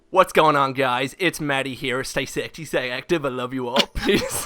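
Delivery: lightly voiced YouTuber sign-off; Maddie. Imitating a friend's video outro, light impression. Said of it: "You're doing Matt".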